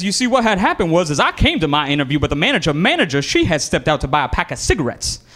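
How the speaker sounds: lightly voiced storyteller caller with swooping pitch; caller spinning excuses. Job applicant explaining a missed interview, mildly put-on fibbing voice. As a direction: spin a dubious excuse as the caller.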